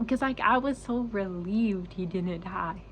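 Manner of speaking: slow, tearful voice on the edge of crying; choked-up relief; starting to cry. Real, not acted. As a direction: hold back the tears as the words come. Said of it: "ooh, I'm gonna start crying".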